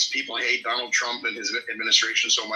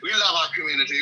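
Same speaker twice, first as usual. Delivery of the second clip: put-on higher mid-Atlantic accent; 4 semitones higher than usual. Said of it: "kind of a mid-Atlantic accent".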